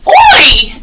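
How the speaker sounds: a bright shouted Oi; teacher shouts Oi as Roy leaping; shouting Oi. Acted. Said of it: "And Roy shouts".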